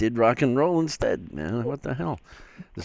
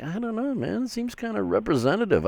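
retold reply; 13 semitones higher, faster than usual. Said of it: "I'm like".

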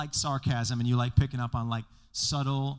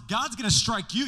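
mock threat; 7 semitones higher, 8 dB louder than usual. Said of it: "He then responds".

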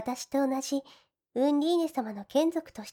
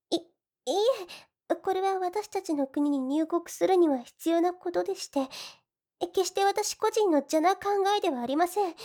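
higher, hurried excuse; flustered denial; 4 semitones higher than usual. Acted. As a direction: talk fast to cover embarrassment. Heroine flusteredly denies ulterior motive. (慌てて言い訳)

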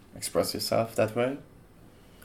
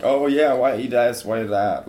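mock yell; 7 dB louder than usual. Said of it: "yell stuff at them".

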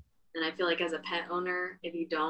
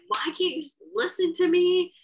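higher and louder mock yell; exasperated yell at dog; 12 semitones higher, 8 dB louder than usual. Owner yelling at her dog in the yard, exasperated. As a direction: shout it at a stubborn dog. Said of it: "I'm like".

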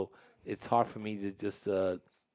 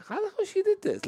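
very high, louder teary disbelief; mock about to cry; 5 dB louder than usual. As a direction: act amazed and nearly crying, pitch way up. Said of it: "I'm about to cry".

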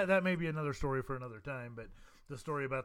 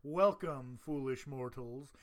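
low, slow spooky welcome; haunted house host voice; 3 semitones lower, much slower than usual. Pretend. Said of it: "or should I say".

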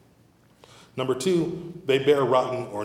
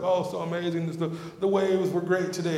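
lightly voiced surfer, pitched higher; mildly gushing, imitating stoked coworkers; imitated enthusiastic surfers; 5 semitones higher than usual. Voices surfer coworkers raving about waves.

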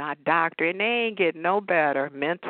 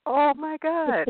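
laughing recall; 10 semitones higher, slower than usual. Real, not acted. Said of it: "I was sitting here laughing".

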